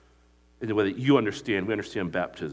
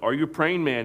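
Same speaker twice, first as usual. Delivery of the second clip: louder and higher, punching praying; emphatic retold question; 5 semitones higher, 4 dB louder than usual. Preacher re-asks the crew's question to the congregation, louder and higher. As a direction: ask it with force, leaning on praying.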